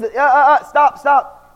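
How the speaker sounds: quick retold call to halt; mock urgent halt. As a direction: imitate a startled warning through a door. Mother halts son at the door.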